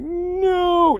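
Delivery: high mock yell of panic; high panicked mock no; panicked shout. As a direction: yell it as you lunge for the door. Lunging to slam the door.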